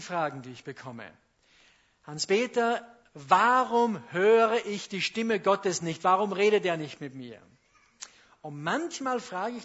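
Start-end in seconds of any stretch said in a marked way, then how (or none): 2.1-7.4 plaintive question. Retold or imitated. Christians' plaintive question quoted.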